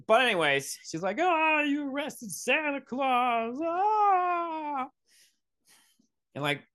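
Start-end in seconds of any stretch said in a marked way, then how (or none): 1.2-4.9 high, drawn-out mock wail; freaking-out little girl. Little girl upset that Santa is arrested, hammed-up high wail. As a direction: wail it up into a held comic scream. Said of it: "the girl freaks out".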